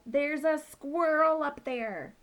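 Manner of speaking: high, slow, urgent dog voice; insist, eyes on the tree; squirrel-obsessed dog voice. Acted. Poo Poo to Stick Dog, high and urgent.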